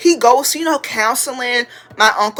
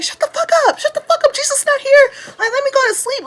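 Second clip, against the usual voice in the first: very high, squealed mock irritation; irritated cousins; faster than usual. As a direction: play sleepy cousins snapping back in falsetto. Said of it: "They kept saying".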